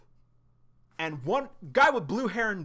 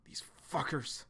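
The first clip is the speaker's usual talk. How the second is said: whisper; 6 dB quieter than usual. Retold or imitated. John muttering under breath.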